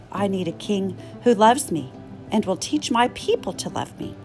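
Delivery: ordinary delivery, nothing marked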